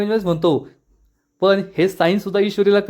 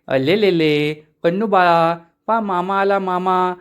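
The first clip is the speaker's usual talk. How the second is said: put-on slow sing-song cooing to a baby; baby talk; slower than usual. Ishwari cooing to baby Kannu, slow doting baby talk.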